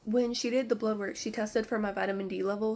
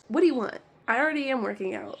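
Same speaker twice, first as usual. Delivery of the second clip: exasperated outburst; 2 semitones higher, 5 dB louder than usual. Retold or imitated. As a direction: throw the question at her in frustration. Ranting at the rheumatologist.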